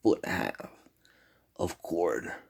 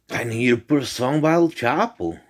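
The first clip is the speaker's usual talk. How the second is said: raised-voice repeat, pitched up; retold yelling; 5 semitones higher, 4 dB louder than usual. Repeating a song request to a girl who can't hear, mock yelling. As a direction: repeat it louder and higher, as if she didn't hear. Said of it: "why you were yelling at me".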